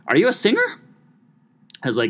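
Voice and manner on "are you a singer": much higher, gushing put-on lady voice; mock older lady. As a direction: gush like a sweet older lady on the phone. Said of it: "And she's like".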